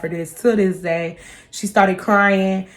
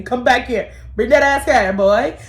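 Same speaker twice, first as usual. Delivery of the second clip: higher, playful summons; mock-order someone to turn around; joking call-back; 3 semitones higher than usual. Daughter calling back mom who walked off, joking.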